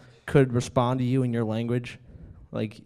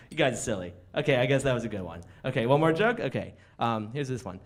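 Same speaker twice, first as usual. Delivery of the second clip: lightly coy comic; mild mock bashfulness; comedian as flattered dog; 3 dB quieter than usual. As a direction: play at reluctantly accepting the praise. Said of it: "my impersonation of a comedian".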